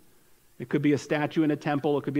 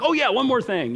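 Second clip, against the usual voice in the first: higher, acted last-second remembering; sudden afterthought; 6 semitones higher, 4 dB louder than usual. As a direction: blurt it as if just remembered. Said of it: "then he was like".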